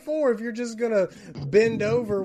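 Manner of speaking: high, laughing disbelief at the coach; exasperated. Retold or imitated. Billy mocking the coach for letting James off, high and incredulous. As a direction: throw it back at him, incredulous. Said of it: "And I'm like".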